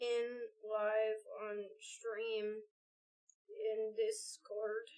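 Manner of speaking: slow, dull caveman voice. Acted. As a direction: grunt it out like a caveman. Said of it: "We love caveman voice".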